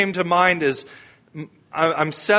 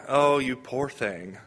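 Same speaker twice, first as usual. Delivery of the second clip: softly pitying, slow and lower; a touch of condescending pity, drawn out softly; mild pity; 4 semitones lower, 6 dB quieter, slower than usual. Acted. Mimicking how culture hears pity, mildly pitying. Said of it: "moved with pity".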